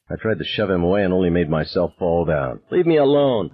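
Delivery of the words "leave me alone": high, louder sobbing yell; tearful shout at a friend. A narrator's reading. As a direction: push the friend away, raw. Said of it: "I shouted at him".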